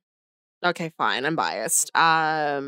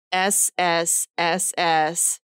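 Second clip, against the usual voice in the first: long hissing s sounds, slowly; drawn-out s like a snake; much slower than usual. Shown as a demonstration. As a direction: stretch each s like a snake. Spelling the name's letters.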